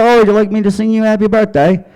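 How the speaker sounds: put-on high British singer accent. A singer offering to sing happy birthday, British accent. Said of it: "He's like".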